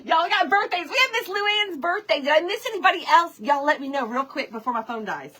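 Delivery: hurried, excited rush; rushing before cutoff. Real, not acted. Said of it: "I'm rushing".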